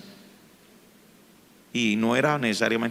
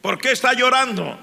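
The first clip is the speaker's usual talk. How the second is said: teacher asking; 11 semitones higher, 4 dB louder than usual. Retold or imitated. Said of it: "teacher questions crying student".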